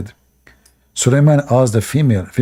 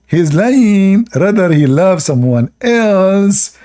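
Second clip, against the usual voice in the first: mocking high bird voice; 6 semitones higher, slower than usual. Repeats the bird's words mockingly.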